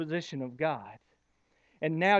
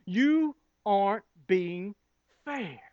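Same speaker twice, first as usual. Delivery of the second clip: mild accusing whine; slower than usual. Retold or imitated. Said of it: "point our finger at God and say".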